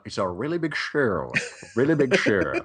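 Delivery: jokey, off-target impression; mock showman catchphrase, hammed-up; The Rock, badly faked. Co-host asked to do his Rock, joke impression. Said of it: "that's my rock".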